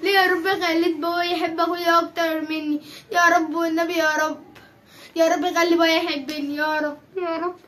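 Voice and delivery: hushed, sad little prayer; tearful prayer. Acted. Girl prays alone, hurt.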